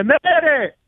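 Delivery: slow, mock-indignant correction with stretched pauses; pedantic caller. Caller phones the host to correct a spelling, pedantic.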